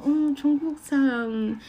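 hesitant attempt at Korean, unsure; sheepish confident Korean; confident but hesitant. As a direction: say it proudly but with a flicker of doubt. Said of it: "很自信，但又带一丝犹豫".

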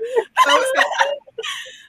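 half-sob, half-laugh, high; tearful high laugh. Real, not acted. Host overcome while introducing Michelle, tearful laugh. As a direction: let a teary laugh break out. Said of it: "I can't cry".

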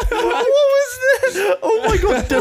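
loud, high laughing shout of disbelief; shocked laughter. Real, not acted. Shocked by the sudden scream.

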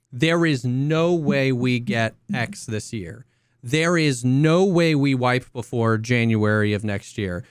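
slow smug know-it-all; mock certainty. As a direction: lay it on slowly and smugly. Mocking confident chatters.

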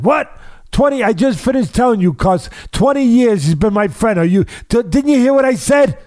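a hurt man protesting, pitch shooting up; upset friend. Retold or imitated. Old Bronx friend protesting to Cus, high and indignant. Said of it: "very upset".

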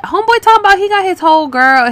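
high, fast disbelieving rant; incredulous outburst. Real, not acted. Reading a guy's dating profile, fast incredulous outburst. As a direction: blurt it out, stunned and fast.

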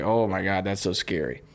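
nervous. Retold or imitated. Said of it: "He looks very nervous".

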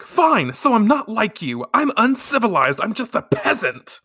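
high-pitched, indignant mock outburst; acted pissed-off. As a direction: play a wounded girl lashing out. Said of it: "Mina's pissed, instantly pissed".

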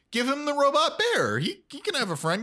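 high pleading cry; pleading plea. Retold or imitated. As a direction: beg for the little dog. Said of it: "I said".

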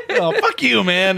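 rude guy voice. Retold or imitated. Mimicking rude character.

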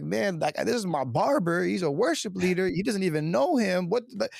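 retold bewilderment, pitch climbing to the end; retold freak-out. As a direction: recount it as if freaking out a little. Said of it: "freaking out a little bit".

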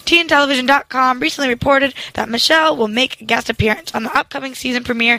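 newscaster voice. Shown as a demonstration. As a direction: deliver it like a TV anchor. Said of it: "I'll try to have more of a newscaster voice".

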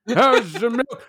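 put-on old-timey voice. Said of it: "answer in an old-timey voice".

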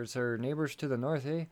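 badly faked Canadian accent; terrible Canadian accent. Podcaster introducing a sponsor from the north, bad Canadian accent. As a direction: attempt a hammy Canadian "eh". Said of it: "that was terrible Canadian accent".

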